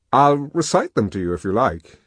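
put-on lively young man voice; voiced character, animated; Helmholtz voice.

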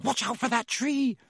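high urgent bellow. A narrator's reading. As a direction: bellow a warning. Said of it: "Harry bellowed".

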